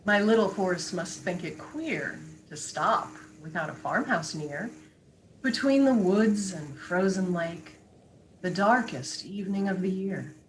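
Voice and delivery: hushed, measured verse reading; poetry reading. Acted. Guest reading a wintry poem with host, measured recital. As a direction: recite with space between the phrases. Reads a Frost poem aloud.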